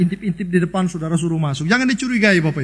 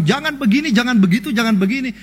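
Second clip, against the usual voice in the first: mock nagging, pitched up; nagging imitation; 3 semitones higher than usual. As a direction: imitate someone reeling off don'ts. Meniru orang menegur berulang-ulang. (menirukan omelan)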